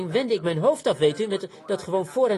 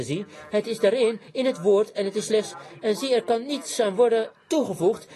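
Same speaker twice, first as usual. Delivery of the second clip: emphatic, driven sermon delivery; fiery preaching; 2 semitones higher than usual. Real, not acted. Preacher warning sinners that their hour has come, fiery preaching. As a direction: pronounce judgement with force.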